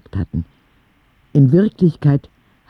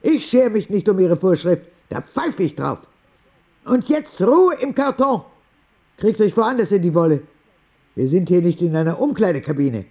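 put-on much higher, fast, fed-up old lady; Oma Rosa scolding; 7 semitones higher than usual. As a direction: put the whole ward in its place. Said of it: "sagte Oma Rosa". (resolute alte Dame, hoch und schnell, die Schwestern zurechtweisend)

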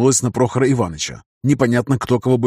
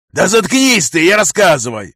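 louder, higher gruff yell; bulldog yelling; 7 semitones higher, 5 dB louder than usual. A narrator's reading. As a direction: bark at him to shut up. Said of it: "орал бульдог".

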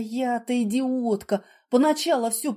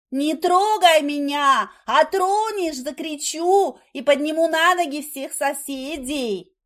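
frightened threat; 5 semitones higher, 4 dB louder, slower than usual. Acted. Wife threatens husband to scream.

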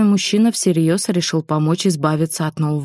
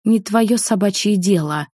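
barked in his face; 3 semitones higher than usual. Acted. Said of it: "рявкнула ему в лицо".

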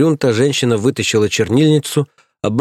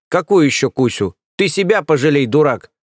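berating nanny; 5 semitones higher than usual. Acted. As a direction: scold him like a furious nanny.

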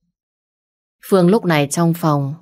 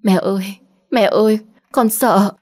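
lẩm bẩm sợ hãi; 4 semitones higher than usual. Acted. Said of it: "miệng cô đang lẩm bẩm".

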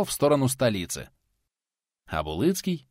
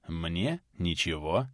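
sincere; 4 semitones lower, 7 dB quieter, slower than usual. Acted. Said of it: "искренне отвечал тот".

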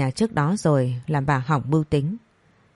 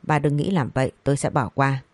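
cold, calm. Acted. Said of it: "bình thản lạnh lùng buông một câu".

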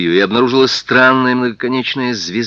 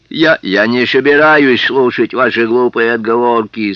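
menacing policeman; 5 semitones higher, 5 dB louder than usual. Acted. Policeman mocking Sam, rising.

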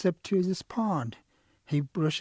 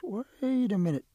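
stalling protest; 7 semitones higher than usual. Acted. Quail stalls Turtle over the whistle, protesting. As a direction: hold them off with a stretched plea.

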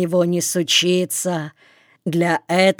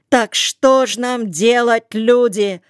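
higher, louder panicky squeal; 5 semitones higher, 4 dB louder than usual. A narrator's reading. Моте shrieks at the crowd a second time, higher squeal. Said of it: "взвизгнул Моте".

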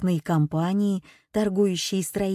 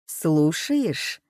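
slow, mocking, machine-like voice; mocking metallic voice; 2 semitones lower than usual. A narrator's reading. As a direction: taunt through a voice changer. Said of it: "механический, какой-то металлический голос".

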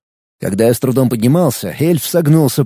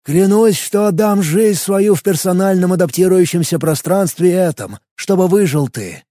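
solemn, high ceremonial oath; booming biblical narration; 4 semitones higher than usual. Acted. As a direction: swear it like a sacred vow. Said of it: "более торжественным голосом".

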